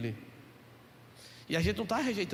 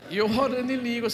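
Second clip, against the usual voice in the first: laughing; 3 semitones higher, 6 dB louder than usual. Real, not acted. Laughing through the story.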